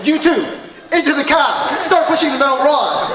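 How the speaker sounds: loud, high orders like a drill sergeant; commanding shout. Retold or imitated. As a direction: bark the orders at the boys. Barking orders at the boys.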